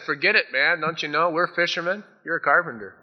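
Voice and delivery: loud, high grumbling protest; skeptical fishermen. Acted. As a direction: humor the carpenter grudgingly. Fishermen's skeptical reply voiced.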